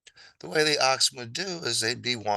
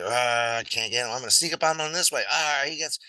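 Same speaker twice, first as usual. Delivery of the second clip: lion; 4 semitones higher, 3 dB louder, faster than usual. Acted. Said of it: "it's like".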